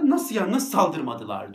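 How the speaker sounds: can't grasp what happened; amazed disbelief. Retold or imitated. The owner asking why the dogs didn't attack, slow amazed disbelief. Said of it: "adam şaşırdı".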